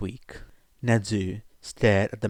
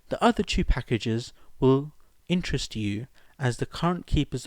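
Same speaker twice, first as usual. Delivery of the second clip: letter writer's voice; 3 semitones higher than usual. Acted.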